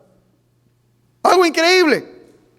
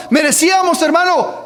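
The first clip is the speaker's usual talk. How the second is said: a loud, pitched-up cry on merecíamos; preaching shout; 3 semitones higher, 4 dB louder than usual. Real, not acted. Preacher crying out to the congregation that we deserved hell, loud. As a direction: throw the word merecíamos out to the congregation.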